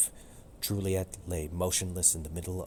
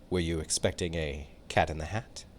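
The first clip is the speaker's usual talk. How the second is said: teasing; 2 semitones lower than usual. Acted. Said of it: "Romeo teased".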